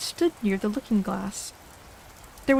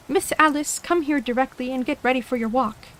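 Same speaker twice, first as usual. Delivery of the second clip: nurse calling; 3 semitones higher than usual. Acted.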